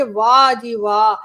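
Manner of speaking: slow, loud mock cheer; mock admiration. Imitating the public applauding the government, mock admiration. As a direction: draw out the praise, imitating an easily impressed crowd.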